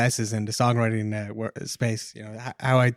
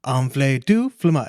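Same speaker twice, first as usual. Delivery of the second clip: stuck record; 4 dB louder, slower than usual. Retold or imitated. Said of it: "the record was stuck on just".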